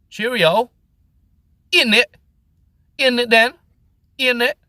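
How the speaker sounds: high, loud hammed-up English knight voice; mock posh English accent. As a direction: do a silly upper-class Brit calling to his friend. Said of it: "talking like this".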